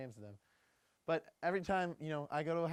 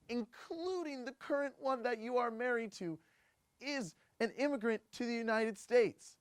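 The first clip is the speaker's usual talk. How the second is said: exasperated mock rant, pitch climbing; comic rant; 4 semitones higher than usual. Host ranting at Donald Trump in a new segment, mock-indignant. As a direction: build from pointed questions to high-pitched disbelief. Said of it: "I will just kinda rant".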